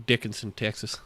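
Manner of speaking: soft Southern-accent impression of a friend. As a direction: mimic a Texan buddy's Southern accent. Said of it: "I just loved the way he said it".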